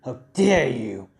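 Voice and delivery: mild acted indignation through gritted teeth; hero's restrained outrage, lightly acted; gritted-teeth anger. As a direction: grit your teeth and challenge them. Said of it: "they just grinds his teeth".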